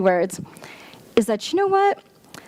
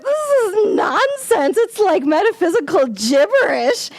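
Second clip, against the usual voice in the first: higher, indignant "This is nonsense"; exasperated scoff; 9 semitones higher than usual. Retold or imitated. Speaker dismissing the description, mock indignant and higher. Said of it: "I'm like".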